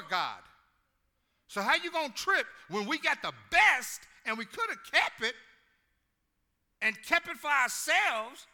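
high, loud, hollering preacher; full-force preaching to the congregation. Real, not acted. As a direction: bring the whole church up.

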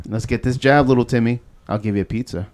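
put-on sweet-talking a kid; lightly coaxing, kiddo tone; coaxing adult to child.

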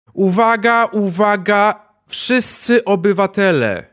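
loud, slow public announcement; through a megaphone. Acted. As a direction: announce to the whole city from a loudspeaker. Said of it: "głos wydobywa się z bardzo dużego jakiegoś, e, głośnika".

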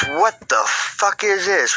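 put-on high, slow baffled girl voice; imitating the girl. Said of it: "And she goes".

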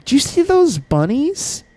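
high cheerful call of Scott; coworker asking. Retold or imitated. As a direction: sing out the name. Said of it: "they were like".

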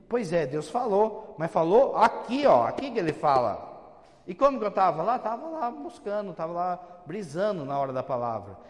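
forceful preaching, loud and slowed; emphatic preaching. Real, not acted. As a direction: drive home that God speaks in the Word. Priest scolds, raising voice.

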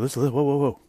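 calming a boss down. Retold or imitated. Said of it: "And I was just like".

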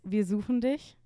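"wir suchen dich" in clear, correct German; correct German pronunciation. Shown as a demonstration. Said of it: "Did I say it right?".

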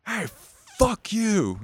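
high-pitched retold taunt; mock yell. Schoolboy cussing out a stranger from ahead, high mock yell. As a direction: call it out high, without much volume. Johnson yelling from down the street.

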